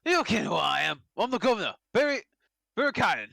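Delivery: rough governor voice. Acted. Governor introducing himself to the visitors, gruff rough voice. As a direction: bark it out like a surly old warden. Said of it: "you make his voice so rough".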